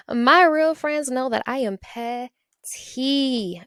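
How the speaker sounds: laughing. Real, not acted. Laughing confession of pettiness.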